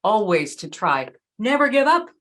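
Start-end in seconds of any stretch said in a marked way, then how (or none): 1.4-2.1 rallying cry. Acted. Rallying cry before Churchill quote.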